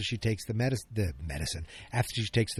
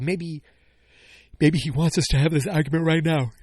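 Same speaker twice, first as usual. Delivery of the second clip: heated Andor retort; 5 semitones higher, 5 dB louder than usual. Retold or imitated. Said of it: "It's like".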